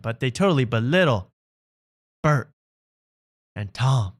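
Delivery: mocking a fan in a clumsy Australian accent; hammed-up bad Australian accent; horrible Australian accent. Mocking the fan's complaint in a bad Australian accent. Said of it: "I'm doing a horrible accent".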